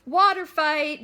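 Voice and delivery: loud excited call; laughing cry. A narrator's reading. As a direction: announce the fun with glee. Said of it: "Junior Boy laughs".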